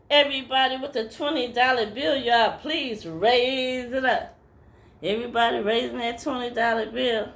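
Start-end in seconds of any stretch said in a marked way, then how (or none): 0.1-4.4 a hint of a pulpit preacher asking for money; preacher's call. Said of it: "And then he go".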